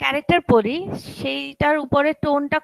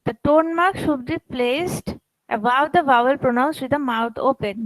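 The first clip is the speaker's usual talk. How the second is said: slow reading aloud; much slower than usual. Shown as a demonstration. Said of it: "আমরা tone mark কোন ভাওয়েলের উপরে দিব?".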